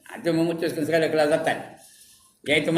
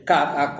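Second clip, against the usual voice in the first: mock laughter. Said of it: "Ketawa je kerjanya".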